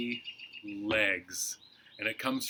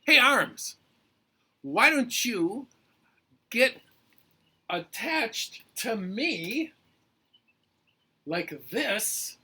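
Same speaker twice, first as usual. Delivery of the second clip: high-pitched character pitching an idea; eager Head; 9 semitones higher, 5 dB louder than usual. Acted. Head persuading arms to attach, eager. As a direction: start loud and high, then ease off into coaxing.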